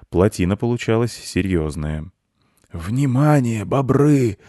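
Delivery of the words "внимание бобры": louder, higher call for attention; old beaver summoning the colony; announcing call. A narrator's reading. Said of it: "сказал старый бобёр". (громко, старый бобёр созывает бобров)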